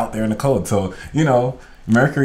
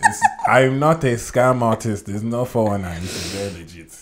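mock-earnest Nigerian scam prince; Nigerian prince accent; 4 dB louder than usual. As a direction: protest innocence in a put-on Nigerian accent. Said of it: "can you do a Nigerian prince accent".

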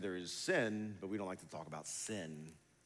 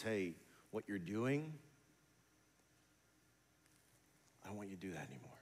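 gentle. Retold or imitated. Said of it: "very gently".

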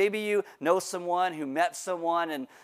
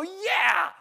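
put-on defiant teen; 13 semitones higher, 4 dB louder than usual. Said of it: "So I go".

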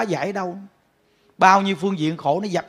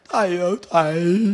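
put-on old woman pleading; 2 semitones lower than usual. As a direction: whine it like a homesick old lady, a touch of mock. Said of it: "bà gặp những Đức, bà nói". (giả giọng bà cụ than thở kéo dài)

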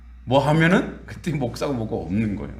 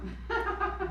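high breathy laugh; 11 dB quieter than usual. Real, not acted. Laughing at own joke.

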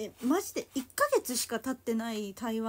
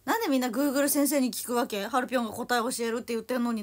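mock indignation; 5 dB louder than usual. Mock outrage at viewers googling.

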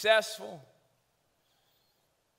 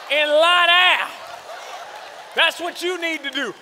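put-on old-school parent scolding; 5 semitones higher than usual. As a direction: bark it like a stern old-school dad. Old-school parent scolding about doctor bills.

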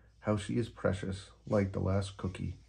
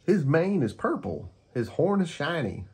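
higher, louder gecko; Gecko voice, teasing; 9 semitones higher, 5 dB louder than usual. Acted. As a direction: poke fun at Unicorn. Gecko character voice.

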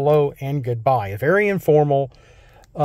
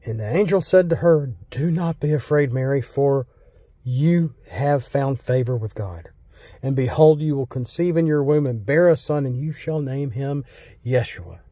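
scripture reading. Acted. Pastor reading Luke to church, measured reading voice. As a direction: read the passage to the congregation.

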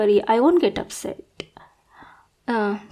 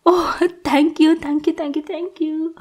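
gushing thanks; 4 semitones higher than usual. Acted. Allowed into his bed.

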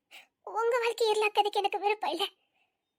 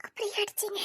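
hurt voice near tears; wife's tearful question; tearful reproach. Acted. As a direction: ask why through tears. Hurt wife confronts husband tearfully.

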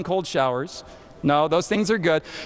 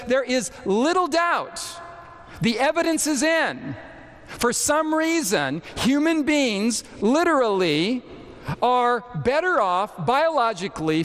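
raised pitch, leaning on key words; quoted text delivered emphatically; emphatic quoting; 3 semitones higher than usual. Retold or imitated. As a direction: read the quote out with deliberate emphasis. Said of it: "emphasizing the word".

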